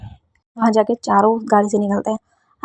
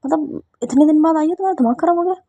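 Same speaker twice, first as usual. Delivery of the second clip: higher, annoyed retort; irritated retort; 5 semitones higher than usual. Acted. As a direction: push back at her rudeness. Friend snaps at Siya.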